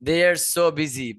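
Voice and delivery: "They are so busy" said slowly, so stressed; slow repeat. Shown as a demonstration. Teacher repeating recording line for students: slow. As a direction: spell out the phrase slowly. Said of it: "repeats the recording slowly".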